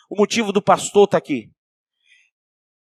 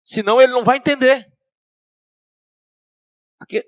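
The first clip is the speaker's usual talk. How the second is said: ordinary talk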